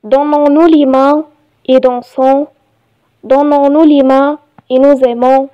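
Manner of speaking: measured reading with pauses between phrases; poem recitation. Shown as a demonstration. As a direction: recite it line by line, evenly paced. (إلقاء قصيدة بتأنٍّ)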